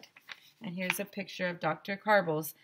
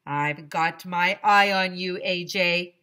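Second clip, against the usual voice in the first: louder, slow warning from the strict principal; stern warning; 7 dB louder, slower than usual. Acted. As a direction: threaten him slowly. Principal warns A J.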